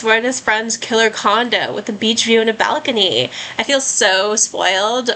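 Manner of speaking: put-on bubbly California teen girl voice; lightly played Valley Girl, chirpy and sunny. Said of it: "That's my best Valley Girl voice".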